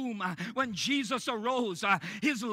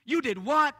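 scandalized gasp, louder and higher; shocked religious folk; 3 semitones higher, 6 dB louder than usual. Retold or imitated. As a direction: judge them with a shocked rise. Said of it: "the religious folk, they may respond".

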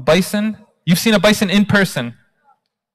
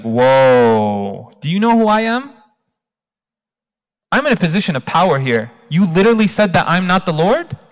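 angry king. Acted. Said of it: "the king gets mad".

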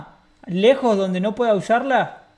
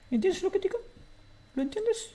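pitched way up, sneering; high mocking taunt; 9 semitones higher, 8 dB quieter than usual. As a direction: taunt the hostage in a squeaky voice. Robber mocking hostage, pitch jumps.

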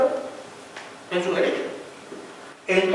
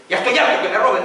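high loud exasperated protest; mock exasperated yell, raised pitch; fed-up shout; 7 semitones higher, 6 dB louder, faster than usual. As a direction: imitate the architect sick of being cheated. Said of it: "me dijo".

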